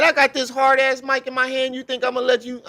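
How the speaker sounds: high-pitched mimicked threat; acted indignant threat. Acting out Sonetta's threat with mic.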